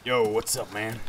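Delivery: put-on London geezer accent; casual cockney lad voice; British accent. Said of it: "keep this voice up".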